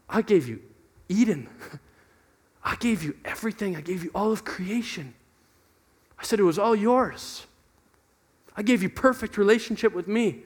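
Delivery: lightly voiced God, soft and measured; understated, wounded God listing gifts; God's patient reply. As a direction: recount each gift softly, with long pauses. God's hurt reply, acted out.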